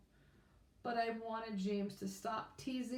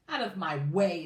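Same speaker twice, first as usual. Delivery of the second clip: a loud, threatening snarl; 2 semitones lower, 7 dB louder than usual. Acted. James as the bully shoving Alan aside, snarling loudly. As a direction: growl it out to push past him. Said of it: "snarled James".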